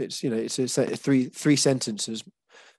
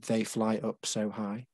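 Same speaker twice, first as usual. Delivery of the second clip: slow counted line; 5 dB quieter, slower than usual. Shown as a demonstration. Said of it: "is five syllables".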